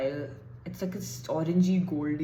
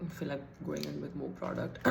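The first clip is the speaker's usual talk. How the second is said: vocal fry; 6 dB quieter than usual. Real, not acted. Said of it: "Why did my voice suddenly become like that?".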